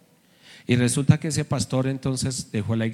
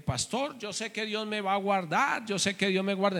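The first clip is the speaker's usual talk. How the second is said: high, much softer earnest voice; imitating the brother; 6 semitones higher, 8 dB quieter than usual. Pastor quotes the threatened brother, high and soft. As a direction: voice the humble brother's faith. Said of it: "el hermanito en el Tolima me decía".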